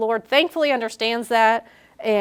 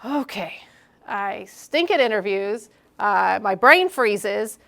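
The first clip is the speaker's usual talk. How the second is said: discouraged; slower than usual. Pretend.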